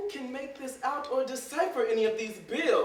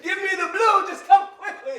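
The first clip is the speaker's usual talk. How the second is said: higher, louder desperate call; urgent plea; 8 semitones higher, 5 dB louder than usual. Acted. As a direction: beg for the pill. Begging for medicine.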